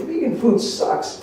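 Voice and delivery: whispered, slow mock complaint. Family complaining about the vegan food, mock whisper. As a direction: breathe it out like a sulky kid. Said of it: "they said".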